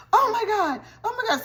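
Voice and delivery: high, loud frantic gasps; panicked mom. Retold or imitated. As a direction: mom suddenly scared her kid is gone. Mom realizes son missing.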